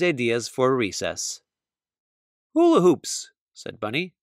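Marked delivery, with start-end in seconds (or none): 2.5-3.3 eager. Acted. Kids shouting out ideas.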